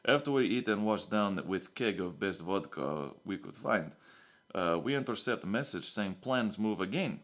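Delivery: lightly put-on Russian accent, broken English; a hint of Russian accent, dropping the articles; a mild mock Russian accent. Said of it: "it's a Russian accent now".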